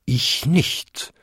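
lightly voiced bell denying it; bonging bell voice. A narrator's reading. Second-biggest bell denying the noise, lightly bonging. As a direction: toll it out with a rising end. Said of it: "bummte die zweitgrößte".

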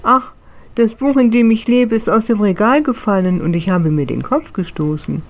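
a small spirit whining about his sore head; tearful little ghost voice; whiny little ghost. Acted. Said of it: "antwortete aber weinerlich".

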